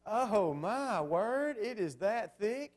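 drawn-out, loud and high "Oh, my word"; marvelling at how thick the rule book is; amazed exclamation. Real, not acted. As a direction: stretch it out in real disbelief.

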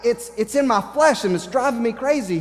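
worked up, pushing the key words hard; Paul. Retold or imitated. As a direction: act out exasperation at an inner battle. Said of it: "I can see Paul getting so frustrated".

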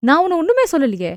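fast, heated retort; quick indignant comeback; flaring back. Acted. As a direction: snap back defensively. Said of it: "சகுந்தலாவும் எகிறினார்".

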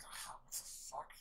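drawn-out hushed curse; slow whispered curse. Retold or imitated. Character whispering in disbelief at the attack, slow and hushed. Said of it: "And that's like".

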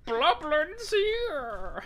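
put-on slow, drawn-out old-timey announcer; 1950s narrator. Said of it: "as an old-timey announcer?".

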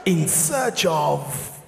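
slow, low, hushed wildlife commentary; nature documentary narrator. Pretend. Documentary narrator describing the Amanzimtoti migration, slow and hushed. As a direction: narrate like a National Geographic film. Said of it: "there's even commentary in the background".

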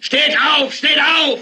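high, urgent yell; shouted command. Acted. TV anchor ordering viewers up, high urgent shout. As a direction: shout it as a call to rise.

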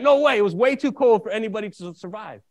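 loud, high imitation of a disbelieving cop; retold disbelief. Cop rejects the boy's story of surviving outside, retold disbelief. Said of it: "the cop didn't believe me".

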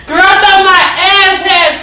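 high, slow, breaking into laughter; laughing squeal. Real, not acted. Telling a friend about the hit, laughing squeal.

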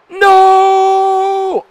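sudden high yelled no; a panicked shout at the screen; real shout. Real, not acted. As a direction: yell it out in alarm. Fighter dodges in video game.

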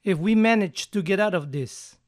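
"manage" carried as the key word, falling; stress on manage. Shown as a demonstration. Teacher demos adding "manage" for students, stressed. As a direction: hit "manage" clearly. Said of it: "pueden poner manage antes de get out".

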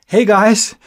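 high, loud hail to friends; called greeting. A narrator's reading. Friend arriving to interrupt the talk, loud high greeting. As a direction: call it out, drawn out and high.

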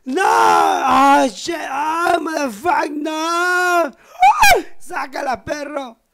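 high, loud mock screams of pain; hammed-up high-pitched howling protest; acted-out scream. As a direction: shriek like the woman in the story. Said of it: "La Roca".

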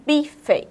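"bife" in two beats, final E fully sounded; spelling pronunciation. Shown as a demonstration. Teacher stressing the vowel E, syllable-by-syllable spelling pronunciation. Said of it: "mas é com a vogal E".

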